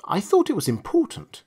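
sweet, clear. A narrator's reading. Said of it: "in a sweet, clear tone".

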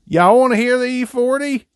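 squeaky falsetto teasing; high goofy voice. Pretend. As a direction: pitch way up, playful.

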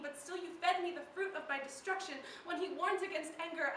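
building, urgent spoken-word delivery; impassioned poetry. Acted. Poet blaming the lover behind their sins, impassioned recital. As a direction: drive the verse forward with rising intensity. Poem builds toward anger and blame.

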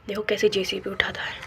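soft whispered aside. Real, not acted. Narrator whispering to viewers about the JCB lifting soil. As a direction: hush and point it out.

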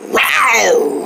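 long pretend tiger roar; angry growl. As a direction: stretch a furious mock roar. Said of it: "I can just growl".

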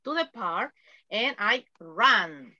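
words drawn out one by one for students; slow model sentence. Shown as a demonstration. Teacher repeating the example for students, slowly. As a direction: pace it slowly like dictation. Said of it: "Todo en pasado".

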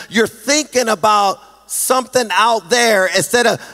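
rhythmic, full-voiced exhortation; preacher's resolute declaration; impassioned preaching. Real, not acted. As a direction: urge the congregation phrase by phrase.

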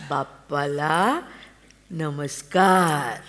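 put-on slow, drawn-out prompt to a child; tender coaxing. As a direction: lead the boy to bow to the god. Mother teaches child to pray. (हळुवार, सावकाश)

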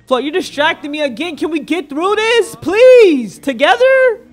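mock pleading. Begging Flo to stop distracting.

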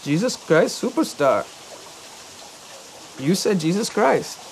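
a hint of the cashier correcting him; imitating the cashier. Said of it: "And she said".

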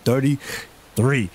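talking around gauze with a slight lisp; gauze in mouth. Real, not acted. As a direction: speak with gauze packed in your cheek. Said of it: "so I got gauze in my mouth".

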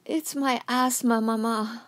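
feeble, slow, put-on sick voice; weak voice. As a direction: sound frail and ill on purpose. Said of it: "I said in a weak voice".

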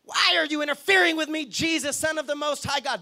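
hammed-up demon outcry, short of a scream; mild mock shriek. Demon confronting Jesus for interfering with him, mock shriek. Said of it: "with a shriek, he screamed".

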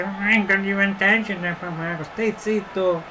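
slow, high mocking echo; mocking the commentator. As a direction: parrot the commentator in a sneer. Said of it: "Ma perché devi rovinare la festa?". (imitazione beffarda del telecronista)

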